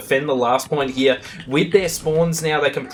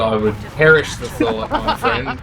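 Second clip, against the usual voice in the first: mock grand refusal. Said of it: "Have you got any impressions".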